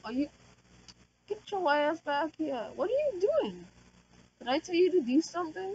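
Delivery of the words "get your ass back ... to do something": higher, louder telling-off; angry scolding. Real, not acted. Player scolding a wandering dweller, angry and high.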